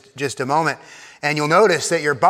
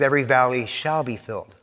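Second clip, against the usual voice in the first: solemn proclamation; 4 semitones lower, faster than usual. Shown as a demonstration. Preacher reading the prophet's promise, solemn and measured. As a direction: declare it as a sure promise. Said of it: "The voice says".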